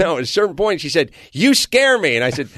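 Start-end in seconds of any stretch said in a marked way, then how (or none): 1.3-2.2 higher, louder voice for the wife's line; a hint of a rattled wife; imitating wife. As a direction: play the wife as if accusing him. Wife's complaint voiced in story.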